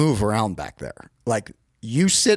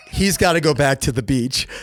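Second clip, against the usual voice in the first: retold shout. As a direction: shout it across to the boss. Calling out to the boss.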